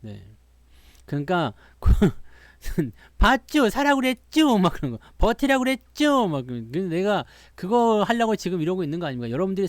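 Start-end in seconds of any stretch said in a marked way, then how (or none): 3.2-4.6 gloating told-you-so. Retold or imitated. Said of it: "봤죠?" 그것만 입에 달고 살 거란 말이야". 5.2-6.3 gloating told-you-so. Retold or imitated. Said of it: "봤죠?" 그것만 입에 달고 살 거란 말이야".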